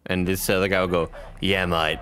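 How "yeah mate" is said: put-on British accent, a bit gruffer. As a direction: roughen up the British accent a touch. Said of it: "I just made it gruffier".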